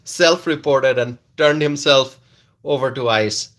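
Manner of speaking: reading with a laugh; half-laugh the quote out; lightly laughing read; giggling mock statement. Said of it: "from ice saying".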